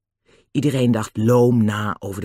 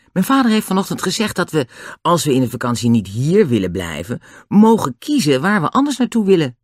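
lightly voiced Annie, lively and higher; a higher, louder touch for little Annie; young Annie; 5 semitones higher, 4 dB louder than usual. Annie tells the others about holiday plans, lightly voiced girl.

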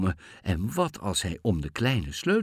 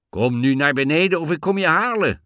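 loud, raised, threatening yell; angry shout; 7 semitones higher, 6 dB louder than usual. A narrator's reading. Bluebeard threatens to come and get the girl, shouting. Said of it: "schreeuwde Blauwbaard".

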